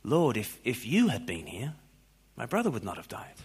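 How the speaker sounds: understated trusting plea, lifting on "here"; statement of faith. Shown as a demonstration. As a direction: say it softly as quiet belief, pausing midway. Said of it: "read it as a statement of faith".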